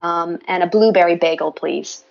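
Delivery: put-on Canadian drive-thru order; Canadian accent. Shown as a demonstration. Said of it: "we all need to know your Canadian accent".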